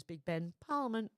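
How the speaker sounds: lightly quoted tour guide line; tossed off movie quote. Retold or imitated. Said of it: "then it goes".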